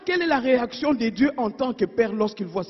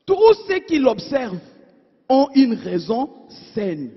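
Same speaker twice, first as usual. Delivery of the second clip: louder, firm scripture reading; firm proclamation; 4 dB louder than usual. Acted. Preacher reading Psalm 111 aloud to his congregation, firm and louder. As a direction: declare the verse firmly to the church.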